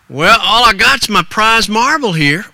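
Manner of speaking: lightly voiced folksy youngster; reply like a small-town lad; ragged little boy. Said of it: "that ragged little boy".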